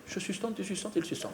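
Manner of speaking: soft schoolroom recitation; mock conjugation. Comedian playing with a rare verb, soft classroom recitation. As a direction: recite it like a grammar lesson.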